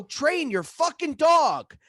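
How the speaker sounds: slow, high, loud yell; exasperated mock shout, drawn out; acted angry demand. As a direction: yell it at your sister, re-enacting the fight. Retold quarrel with sister.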